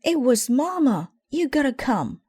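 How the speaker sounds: high, loud urgent shout; shouted alarm. Acted. Brother shouting to Papa in the woods, high and loud. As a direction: shout for help, out of breath. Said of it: "shouted Brother".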